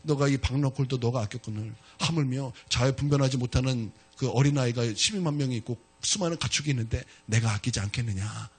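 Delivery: low, soft voice of God; God speaking. Acted. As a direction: answer gently and low, like God. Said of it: "하나님께서 말씀하시기를". (요나에게 낮고 부드럽게 말씀하시는 하나님)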